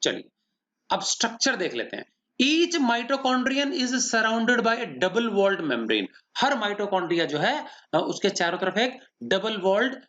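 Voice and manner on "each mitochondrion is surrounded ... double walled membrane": very slow, word-by-word dictation; slow, even pace so every word can be copied; dictating notes. Shown as a demonstration. Teacher dictating a note to students, very slow.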